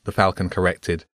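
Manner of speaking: plain reading voice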